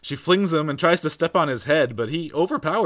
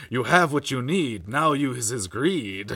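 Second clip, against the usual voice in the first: slow, solemn rhyming spirit; slow mystic ghost voice; slower than usual. Retold or imitated. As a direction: intone it like a ghostly sage.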